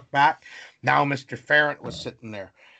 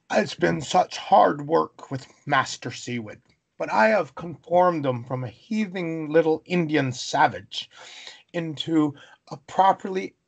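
pompous headmaster; 3 semitones higher than usual. Retold or imitated. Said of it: "this colonial pompous".

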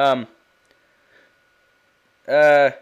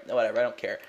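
ordinary delivery

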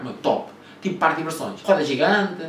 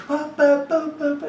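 high, loud repeated yelps; imitating yelling; 12 semitones higher, 4 dB louder, much slower than usual. Vlogger mimicking a woman screaming in McDonald's, loud yelps. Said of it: "entrou uma gaja aos berros".

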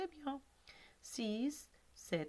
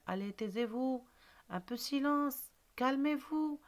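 teacher hushing class; 8 semitones higher than usual. Acted. Teacher voiced calling class to order.

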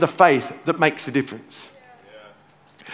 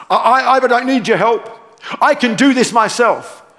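higher-pitched mock self-sufficient protest; self-reliant refusal; 4 semitones higher than usual. Preacher voicing someone who refuses God's help, insistent and higher. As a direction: play someone insisting they need no help.

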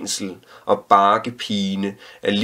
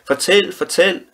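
very high, louder excited cry; children shouting; 10 semitones higher, 4 dB louder than usual. A narrator's reading. Children clapping and begging the storyteller, very high shout. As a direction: beg like kids clapping for more. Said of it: "klappede i hænderne og råbte".

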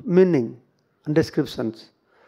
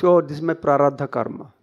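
lower, resigned acceptance; composed, low-pitched quoted reply; calm acceptance; 5 semitones lower than usual. Acted. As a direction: accept it calmly, without complaint. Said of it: "He speaks".

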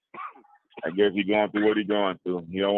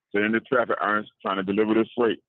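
stuffy sick voice; voice with a cold. Real, not acted. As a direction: talk like you have a cold. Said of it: "It sound like you got a cold".

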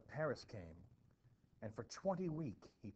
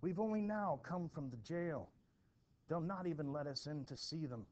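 agitated; 4 semitones higher, 5 dB louder than usual. Acted. Distraught men back from jail.

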